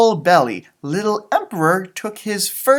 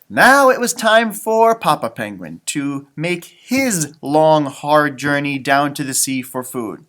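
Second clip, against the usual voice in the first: gentle read-aloud storytelling voice; story narration; 3 semitones lower, slower than usual. Acted. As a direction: read it like a bedtime picture book. Reading picture book aloud.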